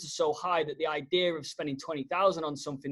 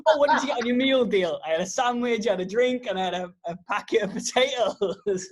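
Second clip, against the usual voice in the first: higher, giggling through a silly shop order; laughing mock order; 5 semitones higher than usual. Co-host laughing while acting out a meal deal chat. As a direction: play it straight but keep cracking up.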